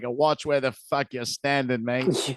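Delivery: put-on light Aussie accent on a gruff warning; Australian accent. Cocky Aussie guy tells the man who got bumped, Australian accent. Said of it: "That's a good accent ... Australian accent".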